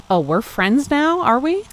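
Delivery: mock-sceptical, pitch climbing high; teasing. Reader mocking the hero's offer, teasing and high. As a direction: arch the brow on it.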